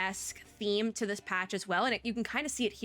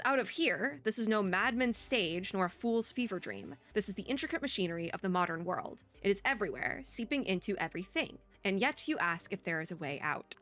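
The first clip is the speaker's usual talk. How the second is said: measured reading of a character's speech; story narration. Acted. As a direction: read the dialogue in your own voice, gravely. Reads character's lines in own voice.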